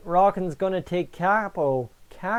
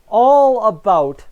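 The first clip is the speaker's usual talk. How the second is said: drawn-out hype; 5 semitones higher, 11 dB louder, much slower than usual. Real, not acted. Hyping the draft debate.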